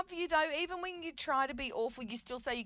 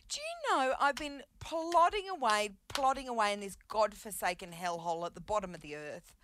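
hammy stage actor. Pretend. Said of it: "starting to sound like Dame Edna".

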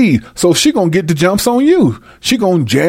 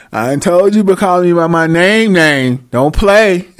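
mock mad woman. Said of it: "she mad".

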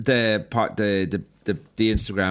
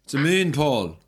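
louder quoted dinner-table exchange; quoted family banter; 4 semitones higher, 5 dB louder than usual. Retold or imitated. Host re-enacting the guest's dinner story, louder. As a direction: act out the silly question and answer.

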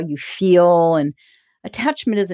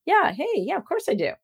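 nonplussed; 9 semitones higher than usual. Retold or imitated. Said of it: "totally nonplussed".

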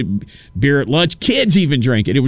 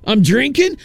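much higher, incredulous questioning; acted-out indignant astonishment; shocked disbelief; 10 semitones higher than usual. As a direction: demand answers in appalled amazement. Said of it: "That's how I felt".

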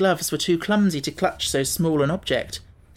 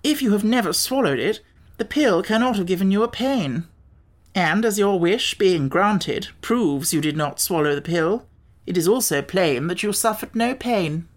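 higher, measured, emphatic reasoning; lightly voiced Wogglebug, pedantic; 4 semitones higher than usual. Wogglebug argues Tip felt no pain, lightly voiced, pedantic. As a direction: lay out the logic point by point.

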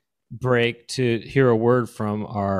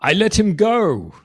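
high mock-English action star; pitched-up English-Austrian accent; comic accented strongman; Arnold Schwarzenegger; 8 semitones higher, slower than usual. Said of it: "Schwarzenegger with an English accent".

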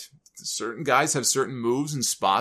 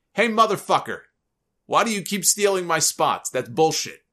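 angry Big Show; 4 semitones higher than usual. Retold or imitated. Big Show confronting Khali, mock angry. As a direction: call him out, hot and pushy.

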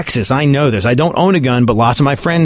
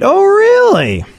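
much higher, slow mock disbelief; sarcastic surprise; much slower than usual. Real, not acted. Mocking the DEA official's claim, sarcastic disbelief. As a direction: stretch it out in fake amazement.

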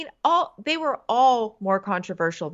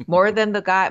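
ordinary talk, nothing marked

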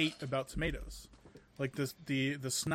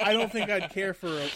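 bursts out laughing mid-sentence; 8 semitones higher, 6 dB louder, slower than usual. Real, not acted. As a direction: laugh through the words. Laughing at warm snot joke.

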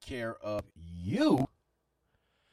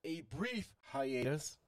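booming grandiose showman host, high and loud; pompous vain hero; 10 semitones higher, 7 dB louder than usual. Acted. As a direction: announce yourself like a vain hero.

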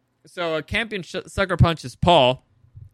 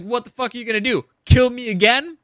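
defiant Father; 5 semitones higher, 5 dB louder than usual. Retold or imitated. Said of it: "And Father's like".

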